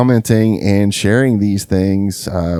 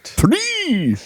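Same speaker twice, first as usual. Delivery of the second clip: The Count. Pretend. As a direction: count it out like a campy vampire. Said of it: "The Count".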